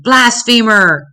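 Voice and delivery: a crowd member's staged scream at a prisoner; mock scream. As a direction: hurl the words as an accusation. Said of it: "others screamed".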